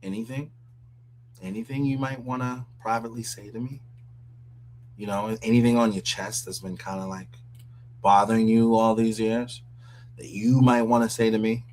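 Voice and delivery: lightly voiced, hushed-down pleading to Trump; mocking the guy. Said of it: "he's gonna tell Trump".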